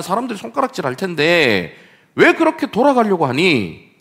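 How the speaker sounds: mocking tempter pushing the shortcut; Satan tempting. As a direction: taunt him toward the easy road. Preacher voices Satan tempting Jesus.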